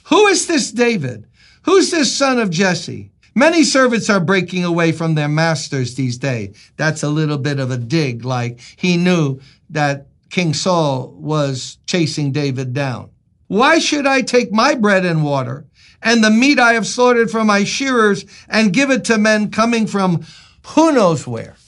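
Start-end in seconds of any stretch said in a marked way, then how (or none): 0.1-6.6 lightly voiced scornful rich man; dismissive Nabal. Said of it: "Nabal answered David's servants". 13.5-21.6 higher, indignant refusal; lightly acted scornful rich man; indignant Nabal. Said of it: "Nabal answered David's servants".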